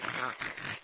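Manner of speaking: rough juddering rattle made with the mouth; imitated turbulence noise. Preacher showing how the plane shook, juddering noise. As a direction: mimic a plane being shaken about.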